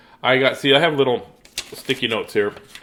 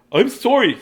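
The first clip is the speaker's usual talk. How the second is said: raccoon voice; 11 semitones higher, 4 dB louder than usual. Acted. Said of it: "said Raccoon".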